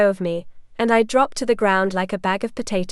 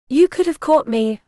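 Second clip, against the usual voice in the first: sharp, raised scolding; 4 semitones higher, 4 dB louder than usual. Acted. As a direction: scold him for letting you fall. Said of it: "I scolded him".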